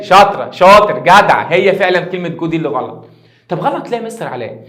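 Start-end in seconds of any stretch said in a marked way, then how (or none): 3.5-4.6 lightly voiced puzzled student, softer and quick; imitated student question. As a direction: ask the teacher softly, as a student would. Voices a student asking the teacher. (تقليد خفيف لطالب بيسأل بصوت واطي)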